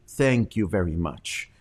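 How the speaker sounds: downward twang. Retold or imitated. Anchor thanks a guest she agrees with: downward mock twang. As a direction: let the thanks fall down in sympathy. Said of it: "her twang is kinda downward".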